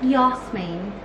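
slow, badly faked British accent. Shown as a demonstration. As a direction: draw the name out in a hammy British accent. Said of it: "That was a really bad British accent".

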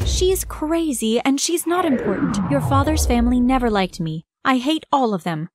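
angry shout. Acted. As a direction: shut down the questions angrily. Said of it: "my mom shouted".

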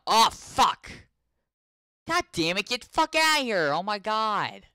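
high, loud angry yelling; real high-pitched rage; furious shouting. Real, not acted. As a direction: scream at the attacker. Attacked in the game.

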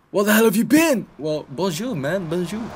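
very high, loud what the hell then sing-song bonjour; shocked cry. Real, not acted. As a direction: yelp in disbelief. Surprised greeting to Porker.

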